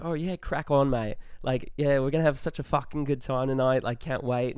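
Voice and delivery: a shaky put-on Australian accent, cheerful; hammed-up Aussie voice, not very good; bad Australian accent. Young guy fakes an Australian accent for frat guys, bad Australian accent. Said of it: "with our Australian accents".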